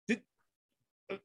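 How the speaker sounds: long halting pauses, then a loud rising guess; stall, then offer it as an unsure question; hesitant retold answer. Guy cornered on the bootleg question, hesitantly guessing.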